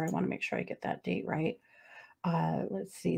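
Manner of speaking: muttered aside. Real, not acted. Aside while checking notes.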